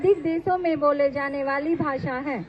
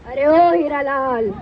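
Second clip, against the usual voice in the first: drawn-out, lower challenging call; 3 semitones lower, 4 dB louder than usual. Acted. Rival letter challenges Hiralal, calling out. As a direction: call out the name slowly and a little louder. Taunting call in acted quarrel.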